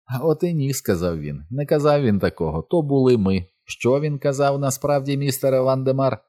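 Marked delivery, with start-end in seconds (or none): 0.1-0.7 high-pitched, gleeful contradiction; lightly voiced tittering villain. A narrator's reading. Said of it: "Містер Круп захихотів". 1.5-6.2 high-pitched villain character voice; high, theatrical questioning of a partner; tittering villain. A narrator's reading. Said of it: "Містер Круп захихотів".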